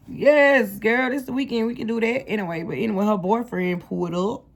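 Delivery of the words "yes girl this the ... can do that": higher, eager retold yes girl; retold eager yes to a night out; excited girl-talk. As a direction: hype up your friend for the weekend. Retelling her own excited reply.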